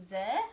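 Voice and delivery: "Zelena" with long pauses between ze, lay, na; one isolated syllable at a time in "Zelena"; "Zelena" chopped into three separate parts; split into syllables. Shown as a demonstration. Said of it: "There's her three word parts".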